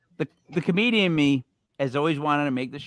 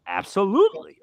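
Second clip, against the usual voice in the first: fifties announcer imitation, pitched up; Adrian as announcer; 4 semitones higher than usual. Host shows how the voice said it, imitating a fifties announcer. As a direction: swing it upward like an old-time announcer. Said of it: "when he said it like an announcer".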